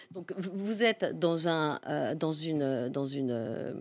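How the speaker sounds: slowing down, losing the thread; trailing off. Real, not acted. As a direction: drift off mid-sentence, searching. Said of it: "excusez-moi, j'ai perdu le fil".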